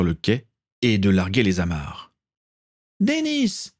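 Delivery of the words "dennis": mild mock scream in a high young woman's voice; Caitlin screaming. A narrator's reading. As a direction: call his name desperately, pitched high. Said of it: "hurlait encore Caitlin".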